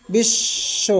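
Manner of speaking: বিশ্ব whispered again as bish-sho; soft repeat. Shown as a demonstration. Teacher repeats বিশ্ব for students in a whisper. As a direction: breathe বিশ্ব softly with the doubled sh. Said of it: "তালব্য স্বর দুইবার উচ্চারিত হবে".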